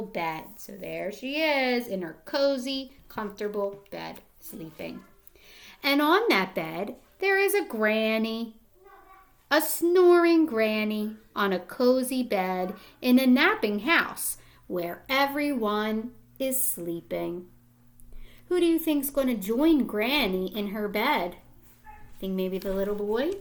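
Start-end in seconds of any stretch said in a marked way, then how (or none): 5.8-17.5 put-on gentle storybook read-aloud to young kids; reading to children. Reading picture book aloud.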